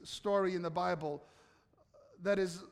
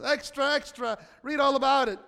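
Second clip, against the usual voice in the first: put-on rapid old-time reporter; 4 semitones higher, 4 dB louder than usual. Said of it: "newspaper in Jerusalem".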